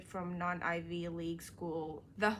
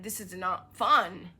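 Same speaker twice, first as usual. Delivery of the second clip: slow, loud complaint; 6 dB louder, slower than usual. Real, not acted. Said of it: "As I said".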